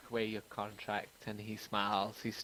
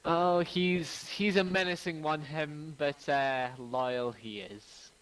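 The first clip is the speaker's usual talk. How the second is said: smiling woman NPC; 4 semitones higher, slower than usual. Acted. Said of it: "she kinda smiles and she goes".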